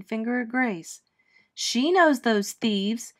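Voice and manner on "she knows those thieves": put-on slow, accusing American accent; a lightly voiced American girl accusing. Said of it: "she said in an American accent".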